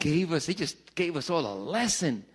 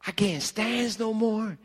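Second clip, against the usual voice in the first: Popeye voice; 4 semitones higher, slower than usual. Retold or imitated. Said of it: "he would say".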